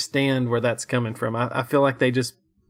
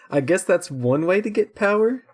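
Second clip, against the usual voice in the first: dry sarcasm; 7 semitones higher, 4 dB louder than usual. Retold or imitated. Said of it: "I wrote".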